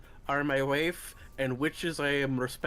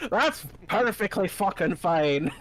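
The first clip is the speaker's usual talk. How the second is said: gruff Irish brogue; 3 dB louder than usual. Acted. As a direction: lay on a thick Irish brogue. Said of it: "now you're getting the Irish brogue".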